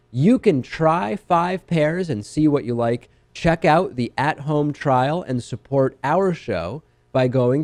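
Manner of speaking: measured, evenly projected host ad read; sponsor ad read. Real, not acted. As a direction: read the sponsor spot clearly, spelling out the web address. Reads a sponsor ad on show.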